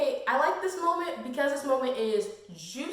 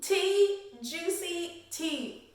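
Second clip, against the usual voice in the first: gossipy delight; 5 semitones higher, much slower than usual. Retold or imitated. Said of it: "I was like".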